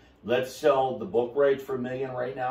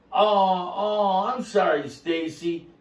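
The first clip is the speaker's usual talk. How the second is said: mock apologetic; 5 semitones higher, 4 dB louder than usual. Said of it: "I go".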